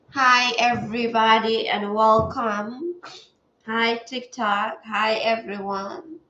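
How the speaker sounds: congested, stuffy voice; blocked nose. Real, not acted. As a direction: greet them through a stuffy nose. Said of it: "stuffy today, as you can hear from my voice".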